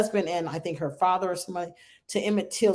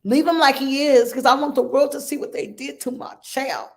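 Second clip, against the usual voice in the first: louder and higher second take, pressing the point; louder retold insistence; 5 semitones higher, 3 dB louder than usual. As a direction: repeat it with force so the world hears. Mother retells grieving mother's words.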